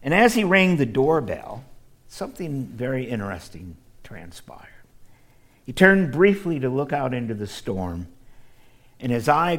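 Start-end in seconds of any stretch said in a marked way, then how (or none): 2.1-4.7 hushed, secretive storyteller whisper; suspense whisper. Acted. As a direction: lean in and whisper the twist.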